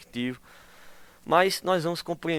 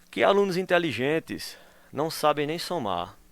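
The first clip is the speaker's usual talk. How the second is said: ironic; 3 semitones higher, 4 dB louder than usual. Shown as a demonstration. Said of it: "Veja, que ironia".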